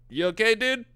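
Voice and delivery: high, nervous neurotic voice; Woody Allen impression. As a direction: play a jittery neurotic New Yorker. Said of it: "however Woody Allen would say it".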